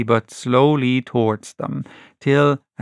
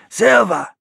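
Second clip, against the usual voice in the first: higher, hoarse and trembling; hoarse shaking voice; 8 semitones higher than usual. Acted. Tom confronting Silver, hoarse and shaking. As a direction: rasp it out, voice shaking. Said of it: "spoke as hoarse as a crow".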